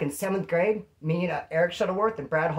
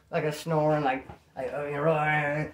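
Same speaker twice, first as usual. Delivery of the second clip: faked snoring with sleepy mumbles; mock sleeper's snore; imitated snore; 2 semitones lower than usual. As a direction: pretend to be asleep, snoring. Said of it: "throw, like, a snore in".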